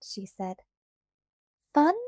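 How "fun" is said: snorted. Acted. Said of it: "snorted Annabel".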